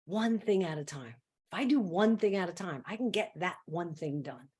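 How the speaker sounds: low, soft, steady resolve; calm self-talk. Acted. Stressed person refocusing on one thing, calm self-talk. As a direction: settle down and reason with yourself.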